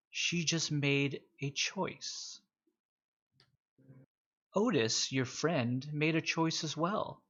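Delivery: lightly voiced nemesis, unhurried with long pauses; Walter.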